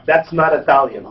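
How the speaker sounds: Italian waitress correcting American kids, light mock Italian accent. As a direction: lightly mimic the Italian waitress, flat and final. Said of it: "the way they say it with the accent".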